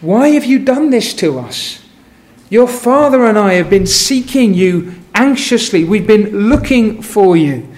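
mildly hammed-up worried scolding; laying it on thick. Mary scolding her lost twelve-year-old, mild mock anguish. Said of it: "she lays it on quite thick".

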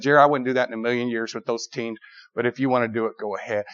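low, soft fatherly voice; reluctant dad. Acted. Dad letting his son off the leash, reluctant.

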